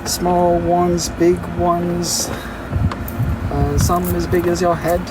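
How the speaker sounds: a touch of British, sung lightly; British accent. Pretend. Streamer finishing the coconut song in a light British accent. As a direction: keep the mild British lilt going. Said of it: "The British comes out".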